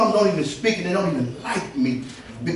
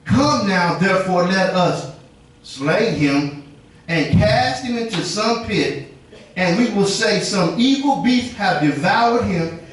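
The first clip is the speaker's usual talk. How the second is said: scripture read; slower than usual. Acted. Reading brothers' plot.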